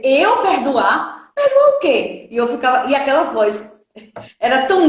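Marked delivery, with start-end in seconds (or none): 0.0-2.3 slow, then a sharp high jump on "Perdoar o quê"; retold disbelief, pitch leaping up; incredulous. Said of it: "eu sentei na cama e dizia". (incrédula, subindo muito no "Perdoar o quê")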